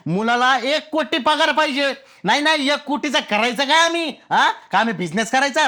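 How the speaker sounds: high, incredulous protest; exasperated, voice pitched right up; indignant outburst. Acted. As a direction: throw the demand back in outrage. Ranting about brides' salary demands.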